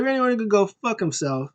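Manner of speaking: high mock curse, toned down; lightly voiced repeat. Repeating the witch's curse for listeners, lighter high imitation.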